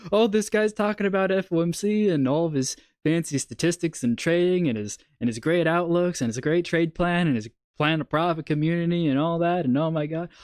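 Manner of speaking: high, dismissive viewer voice; mock bored viewer. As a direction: brush off the trading talk. Imitating viewers who only want the cat.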